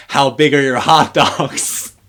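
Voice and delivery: slow, teasing seductive voice; flirty voice. Retold or imitated. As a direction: draw it out like a come-on. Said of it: "Lexi goes into the store and she's like".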